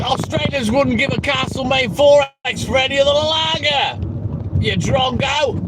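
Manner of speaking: a jokey Aussie put-on accent; mock Australian accent. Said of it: "What's wrong with my Australian accent?".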